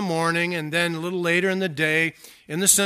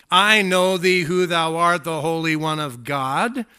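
loud, slow declamation; demon's outcry; 6 dB louder than usual. Acted. Demon's outcry quoted by preacher.

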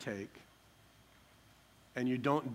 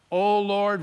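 loud, raised cry to God; pouring out his heart; 5 semitones higher, 8 dB louder than usual. Acted. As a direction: call out to God in distress. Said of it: "Joshua's pouring out his heart to God".

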